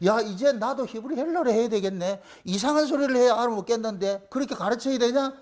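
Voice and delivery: lightly sarcastic imitation; a touch of sneering irony; mock sarcasm. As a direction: feign reluctant compliance, mocking them. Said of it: "이게 하나님 비아냥거리는 거예요".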